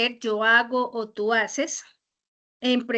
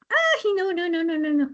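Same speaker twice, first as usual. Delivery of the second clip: sudden high dismayed cry; oh no, something went wrong; flustered real dismay; 5 semitones higher than usual. Real, not acted. Teacher loses her place, dismayed.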